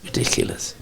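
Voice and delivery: gasping, whispered mock disapproval; hushed, exaggerated offence; mock shocked. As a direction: whisper it like a scandalised objector. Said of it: "you'll get people".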